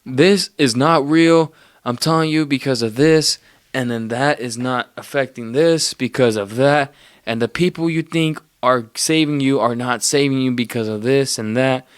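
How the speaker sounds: hammed-up yelling at passers-by; mock screaming. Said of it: "I start screaming".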